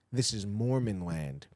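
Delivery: slow, low threatening whisper of a Mormon man; menacing whisper. Retold or imitated. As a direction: drop the voice and slowly hiss the warning.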